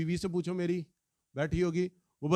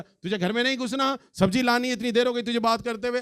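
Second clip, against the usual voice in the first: mock scolding; 5 semitones higher than usual. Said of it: "उसे डांट दिया".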